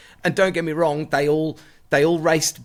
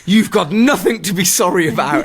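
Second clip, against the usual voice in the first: laughing through real emotion, welling up; teary laugh; 2 semitones higher, 5 dB louder than usual. Real, not acted. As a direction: quote it while laughing and choked up. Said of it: "I'm welling up now".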